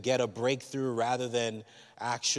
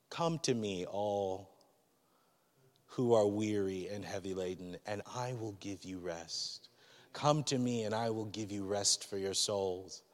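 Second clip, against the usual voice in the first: gentle voice of God; 4 dB quieter than usual. Retold or imitated. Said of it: "he's just like".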